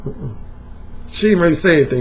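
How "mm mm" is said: head-shake no. Retold or imitated. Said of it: "shook her head like".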